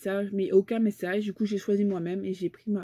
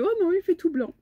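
dismayed; 8 semitones higher than usual. Retold or imitated. Retold dismay at snow.

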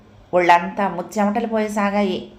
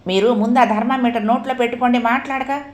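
fast, higher scolding order; shouting; 4 semitones higher than usual. Acted. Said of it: "అంటూ అరిచాడు". (అరుస్తూ ఆజ్ఞాపించడం)

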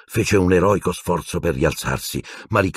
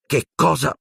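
high-pitched, alarmed question; raised voice; 11 semitones higher than usual. A narrator's reading. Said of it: "intervenne Harry ad alta voce".

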